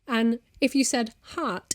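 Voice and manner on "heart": "heart" with a hard punctuating T; "heart" ending on a spiky T; sharp T heart. Shown as a demonstration. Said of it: "the T is such a, punctuating point".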